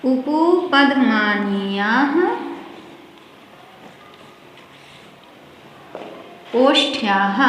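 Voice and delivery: slow, drawn-out Sanskrit sutra chant; sutra recitation. Shown as a demonstration. Teacher reciting the sutra slowly to students. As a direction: intone the rule slowly, word by word. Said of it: "अब पांचवा सूत्र है".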